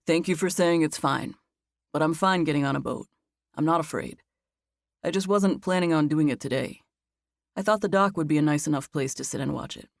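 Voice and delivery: a hint of steady, reassuring Max; Max's voice.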